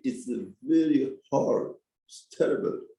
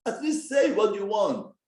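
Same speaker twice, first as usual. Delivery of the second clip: exasperated shout; 6 semitones higher than usual. Acted. Husband's exasperated retort.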